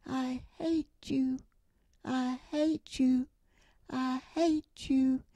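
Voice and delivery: slow, drawn-out echo of a shout; echo from across the valley. Retold or imitated. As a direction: call it back like an echo off the mountain, slowly. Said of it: "Back across the valley came the words".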